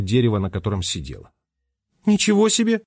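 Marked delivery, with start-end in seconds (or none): 2.1-2.8 higher, amazed gasp of a word; Holly hears the story and can't believe it; surprised exclamation. A narrator's reading. Surprised outburst. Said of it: "воскликнула Холли".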